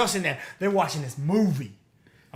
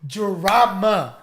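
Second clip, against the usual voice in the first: slow drawn-out gossip hype; dramatic tease; 4 dB louder, much slower than usual. Pretend. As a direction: stretch it out like a juicy reveal. Hyping up the gossip.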